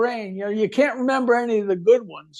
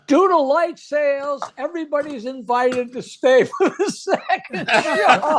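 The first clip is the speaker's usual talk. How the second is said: sing-out venue announcement, slightly raised; announcer; 4 semitones higher than usual. Retold or imitated. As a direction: announce it to the whole house. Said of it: "the announcer goes".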